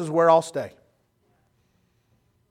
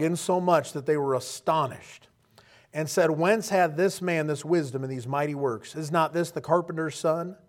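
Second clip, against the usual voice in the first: scripture reading. Acted. The pastor reading Matthew to the church. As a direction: read the King James verses plainly.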